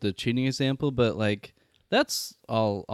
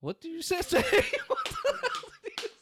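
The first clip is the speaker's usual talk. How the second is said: laughing; 3 dB quieter than usual. Real, not acted. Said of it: "You totally slurred it".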